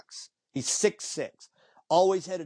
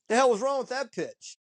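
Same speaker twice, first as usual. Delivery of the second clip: angry demand; 9 semitones higher than usual. Retold or imitated. Ted Williams angry at the pitch.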